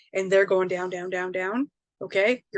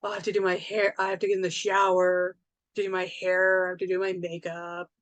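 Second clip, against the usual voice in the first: mock drained. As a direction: sound worn out and reluctant. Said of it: "you come across an energy vampire and you're like".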